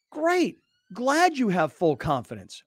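mock him with a fake cheer; sarcastic. Real, not acted. Host sneering at the coach's claimed confidence, sarcastic.

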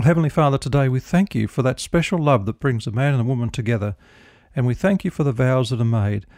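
calm, earnest prayer to the Heavenly Father; closing prayer. Acted.

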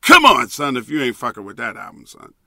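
a hint of a famous DJ's hype call; loud opening then a quick, dropped aside; light DJ hype voice, barely changed. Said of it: "in my DJ voice".

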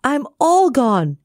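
slow, final, lightly voiced lament; a hint of a doomed cookie; gingerbread man voice. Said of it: "said the gingerbread man".

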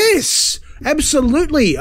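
high, eager yes; emphatic agreement. Real, not acted. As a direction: jump in with keen, high-pitched agreement. Emphatic agreement with the co-host's point.

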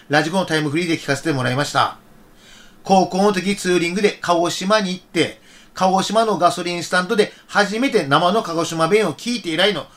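standard Japanese with Kagoshima intonation; Kagoshima accent. Real, not acted. Host reading a Hiroshima listener's letter, Kagoshima accent. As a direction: read the standard-language letter in a Kagoshima lilt. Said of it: "今のは標準語じゃのして鹿児島弁やったな".

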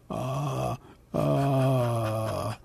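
soft, drawn-out voice key; Elmer Fudd tone. Shown as a demonstration. Showing the host the key to a cartoon voice, soft held tone. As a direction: hum softly to find the character's pitch. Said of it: "the key or the tone for Elmer Fudd is".

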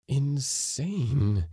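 mild, rising alarm; stunned dismay. A narrator's reading. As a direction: say it as a horrified thought. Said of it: "he thought".

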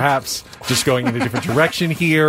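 imitating the glitch. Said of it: "you're making me insane".

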